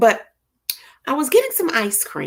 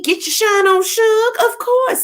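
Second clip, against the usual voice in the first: cheerful hype; 12 semitones higher, 3 dB louder than usual. Real, not acted. Cheering on a viewer.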